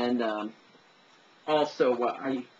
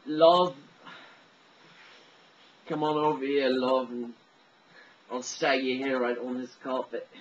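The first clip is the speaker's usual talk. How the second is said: boozy Welsh barfly; rough attempt at a Welsh drunk; drunken Welsh accent; 3 dB louder than usual. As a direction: put on a tipsy Welsh accent. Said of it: "the Welsh accent, or the, the drunks".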